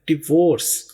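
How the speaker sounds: डिवोर्स with d and v run together; डिवोर्स said di-vorce, no "dai"; डिवोर्स: डी और वी मिलाकर; model pronunciation. Shown as a demonstration. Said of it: "डी और वी को मिलाना है".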